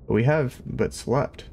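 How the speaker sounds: put-on slow, gentle old man; lightly voiced elderly gent.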